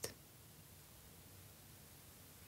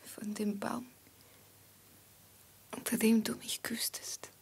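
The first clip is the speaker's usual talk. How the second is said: tender secret whisper; hushed lover's whisper; 2 semitones higher than usual. Acted. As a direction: breathe it to your lover.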